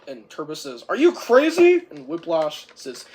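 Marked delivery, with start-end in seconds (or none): 0.9-1.9 high, loud disbelief; shocked shout. Retold or imitated. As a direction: yell it in shock. Turbo shocked by Whiplash.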